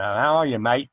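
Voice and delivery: a hint of an Australian accent; lightly put-on Aussie greeting. Trying American but slipping into light Australian accent. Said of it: "But that's Australian".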